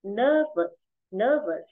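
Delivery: "nervous" stressed on its first syllable, second one falling. Shown as a demonstration. Teacher repeats the word for students, first-syllable stress on "nervous". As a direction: lean on the start of "nervous". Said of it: "trọng âm rơi vào âm tiết một".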